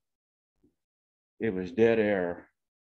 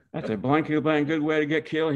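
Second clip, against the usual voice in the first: retold angry cussing; 6 semitones higher, faster than usual. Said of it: "he kept cussing and going".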